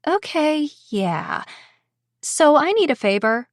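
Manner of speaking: forced out through gritted teeth; words squeezed past clenched teeth. Acted. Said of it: "Her teeth clenched so hard".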